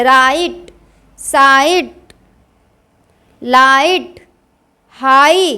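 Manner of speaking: राइट, साइट, लाइट, हाई leaned on, long "aai"; a little force. Shown as a demonstration. Teacher drilling igh words, some force on राइट, साइट, लाइट, हाई. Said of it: "थोड़ा जोर देके".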